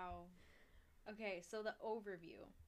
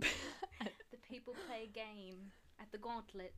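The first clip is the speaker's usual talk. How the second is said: slow, halting British accent attempt; much slower than usual. Shown as a demonstration. Making up lines for a friend, halting British accent. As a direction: feel your way through British, slowly. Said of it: "Can you do a British accent".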